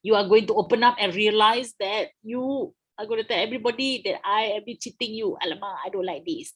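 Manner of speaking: mock panicked colonial officer; a hammed-up worried British official. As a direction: play the British fretting, half-joking. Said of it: "very worried because they're like".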